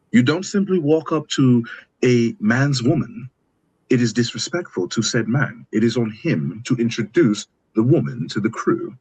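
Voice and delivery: measured, formal mock British accent. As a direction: lecture on etiquette in a put-on British accent. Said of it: "that British accent".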